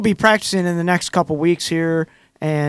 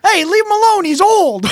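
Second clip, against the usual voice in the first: much higher, mock protective call; teammate heckling; 13 semitones higher, 3 dB louder than usual. Tiny shouting from the background to defend Planky, high mock plea. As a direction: pipe up for the old man like a fan in the stands. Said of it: "you hear Tiny in the background go".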